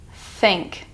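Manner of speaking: "Think" with tongue between teeth; th sound demo. Shown as a demonstration. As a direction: air flowing over the tongue on "Think". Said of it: "the T H sound as in think".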